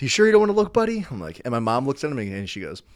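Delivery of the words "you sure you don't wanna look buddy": higher, louder teasing grown-up; doubtful promo guy. Retold or imitated. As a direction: tease the kid, sure he'll fail.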